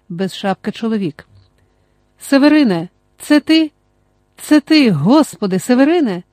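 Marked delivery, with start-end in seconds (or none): 2.2-6.2 higher, louder startled recognition; a narrated cry of recognition; surprised call. A narrator's reading. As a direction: call out his name in disbelief. Recognizes him from the sled.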